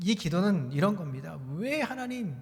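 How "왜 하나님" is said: defiant, high-pitched, challenging delivery. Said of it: "그런 어조로 지금 하박국 선지자는 독특한 어조로".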